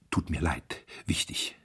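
a waiter murmuring urgent news into the chairman's ear; whispered in ear. Acted. Waiter murmurs urgent news to chairman, hushed. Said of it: "flüsterte ihm ins Ohr".

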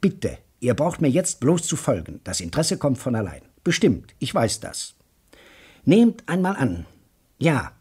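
a keen talker carrying two stunned men along; hammed-up enthusiast; excited lecturer. Joe Welling lays out his scenario.

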